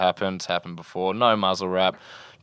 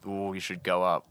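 quiet inner warning; 7 dB quieter than usual. Retold or imitated. Contraction during the dive.

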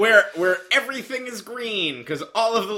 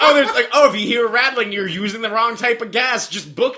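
laughing mock manual voice; 5 semitones higher, 5 dB louder than usual. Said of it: "It's like".

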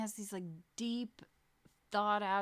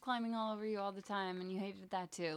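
wistful; 4 semitones higher than usual. Acted. Mother imagining her future self looking back, wistful. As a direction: look back fondly on your younger self. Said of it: "I wistfully long for it".

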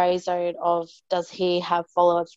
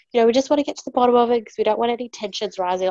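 hurried official; 4 semitones higher, faster than usual. Retold or imitated. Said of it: "she goes".

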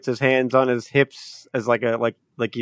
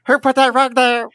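indignant character; 11 semitones higher, 6 dB louder than usual. Acted. Victim of rug pull.

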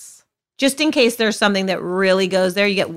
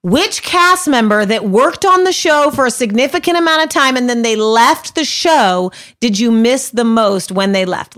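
loud; 3 semitones higher, 4 dB louder than usual. Real, not acted. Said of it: "that doesn't hurt your ears?".

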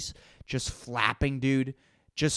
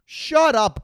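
higher, louder snap; sharp shut up; 10 semitones higher, 4 dB louder than usual. Acted. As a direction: bark it at them. Repeated retort, louder.

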